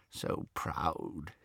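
muffled, fond. A narrator's reading. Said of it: "his voice was muffled".

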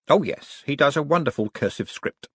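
a fussy clerk reporting; Drumknot. Acted. Clerk Drumknot reporting the fake ledgers to Vetinari, precise.

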